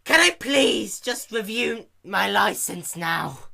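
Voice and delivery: high, loud frantic shout; shouted desperate plea; exasperated begging. Acted. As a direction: beg while boiling over. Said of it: "Rainbow Dash begged".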